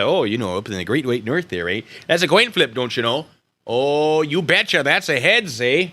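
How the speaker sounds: playful, hammed-up Canadian lilt; mock Canadian accent. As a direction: put on a folksy Canadian accent. Playful Canadian act after Canada shout-out.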